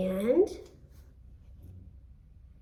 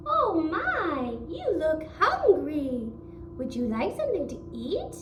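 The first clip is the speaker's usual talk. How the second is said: a lightly voiced kindly wife, a bit higher; giant's wife; 4 semitones higher than usual. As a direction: offer food gently, a hint of a sweet hostess. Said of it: "and she says".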